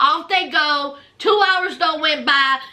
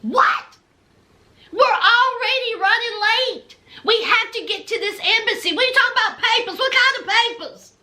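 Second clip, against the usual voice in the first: rapid, high-pitched indignant rant; hammed-up tantrum over missing papers; mock fit; 5 semitones higher than usual. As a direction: throw a fast, exasperated fit. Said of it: "Memphis has a fit".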